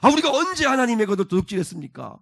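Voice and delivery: high indignant denial, falling at the end; argumentative retort. Acted. People accused of robbing God, arguing back indignantly. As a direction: dispute the charge as if falsely accused. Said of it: "막 이렇게 막 따지는 거예요".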